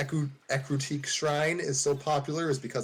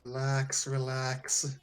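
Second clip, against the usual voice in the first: deep commanding voice; 3 semitones lower than usual. Acted. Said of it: "in a deep, commanding voice".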